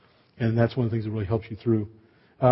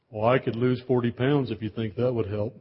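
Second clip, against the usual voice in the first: deadpan humorless; 4 dB quieter than usual. Retold or imitated. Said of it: "he has this totally humorless expression".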